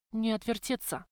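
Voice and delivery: plain reading voice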